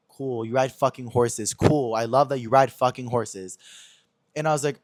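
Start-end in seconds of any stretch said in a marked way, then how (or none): 0.1-3.6 slow, deadpan mock approval; retold dry sarcasm; sarcastic retort. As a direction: feign being impressed, dragging it out. Sarcastic retort to dull hobby.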